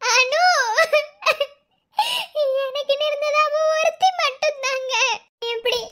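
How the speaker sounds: put-on tearful, pleading for her lost child; a mother crying over her missing child. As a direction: weep as you speak of the lost daughter. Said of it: "ஏம்மா அழுகுறியா?".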